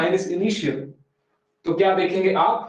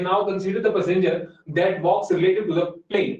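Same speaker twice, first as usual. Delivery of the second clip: very slow, every English word spaced out; slow dictation; much slower than usual. Shown as a demonstration. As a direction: spell it out slowly for students to copy. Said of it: "ऐसे धीरे धीरे बोल रहे थे".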